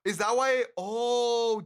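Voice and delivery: high, loud sudden realisation; a startled, loud "oh"; shocked surprise. Real, not acted. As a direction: it dawns on him all at once. Realisation about chat claim.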